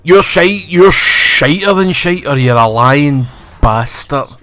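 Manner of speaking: hammed-up villain taunt shouted at Obi-Wan; mock angry rant. Acting out Reva's taunt.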